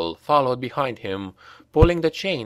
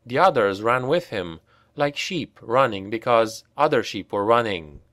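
ordinary delivery, nothing marked

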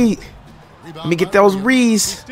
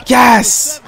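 excited yes; 7 semitones higher than usual. Real, not acted. Celebrating a teammate's score.

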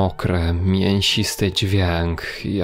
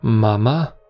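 startled question; 3 semitones higher, 3 dB louder than usual. Acted. Son hearing his mother at the door, startled. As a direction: call out, unsure it is really her.

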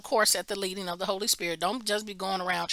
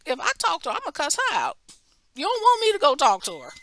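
retorting to God; 6 semitones higher, 5 dB louder, much faster than usual. Retold or imitated. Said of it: "I was like".

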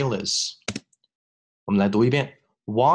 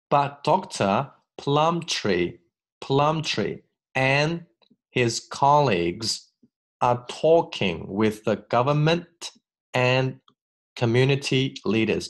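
slow phrase-by-phrase reading; 2 semitones higher, slower than usual. Shown as a demonstration. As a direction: read But Doctor Plumtree very slowly in chunks. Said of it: "第三部分".

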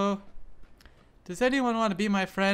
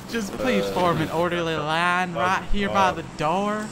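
lightly voiced mock cabin crew; airline announcement; 5 dB louder than usual. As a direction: herd passengers like airline staff. Joins the airline announcement bit.

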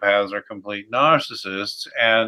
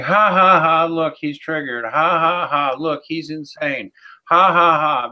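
higher-pitched jeering followers with spoken ha-has; mock taunting; 4 semitones higher than usual. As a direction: imitate gloating hecklers, pitched up. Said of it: "they will start saying".

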